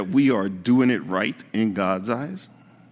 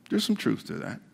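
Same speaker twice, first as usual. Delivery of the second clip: quiet repeat; 6 dB quieter than usual. Shown as a demonstration. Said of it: "Now, there's some truth to that".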